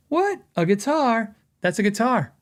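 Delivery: mock surprise. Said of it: "and then I go".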